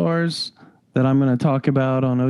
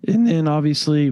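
voice crack. Real, not acted. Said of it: "I'm going through puberty there with that voice crack".

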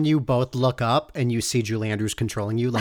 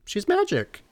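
starstruck; 11 semitones higher, slower than usual. Retold or imitated. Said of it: "I was just like".

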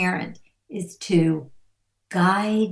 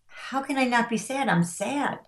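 higher, puzzled protest; mock incredulous protest; 5 semitones higher than usual. Imagined reply to being dismissed.

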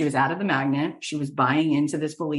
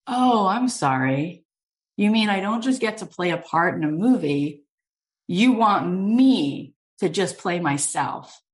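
playful disbelief; 4 semitones higher than usual. Retold or imitated. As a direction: draw it out as if you can't believe the offer. Acted disbelief at TV show offer.

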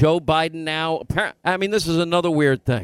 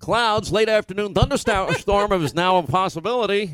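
mock weather forecast; 4 semitones higher than usual. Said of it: "like a real reporter".

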